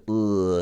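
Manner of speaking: a held "uh", the first half of ы; isolated "uh" demo; uh sound. Shown as a demonstration. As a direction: sustain a pure "uh" vowel for learners. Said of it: "get used to saying".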